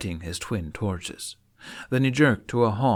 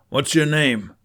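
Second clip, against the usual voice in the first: loud, higher commanding demand; 5 semitones higher, 7 dB louder than usual. Acted. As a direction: bark the question with authority. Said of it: "demanded the knight".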